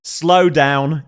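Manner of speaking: broad Aussie "Slow down"; Australian accent. Shown as a demonstration. Streamer proving the voice actress is Aussie, Australian accent. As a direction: draw it out as an Australian would. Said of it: "pronounce it like that, they are Australian".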